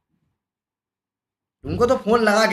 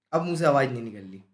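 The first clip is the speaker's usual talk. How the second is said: quieter mocking repeat; soft taunt; 10 semitones lower, 7 dB quieter, faster than usual. Real, not acted. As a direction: drop the voice and mock him. (धीमी आवाज़ में चिढ़ाते हुए)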